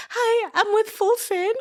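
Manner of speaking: tearful laugh, pitched high; high, half-laughing self-quote; laughing through it. Retold or imitated. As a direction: giggle the words out. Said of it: "I was like".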